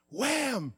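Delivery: high, sudden "wham"; imitated impact. Preacher retelling his hand accident, imitated impact. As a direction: make the blow land with a high-pitched slam.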